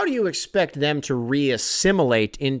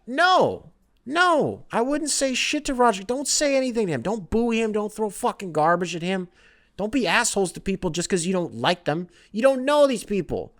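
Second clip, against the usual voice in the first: pitched way up, insisting; high protest; 7 semitones higher than usual. Real, not acted. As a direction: squeak out the no's in protest. Protesting Goodell idea.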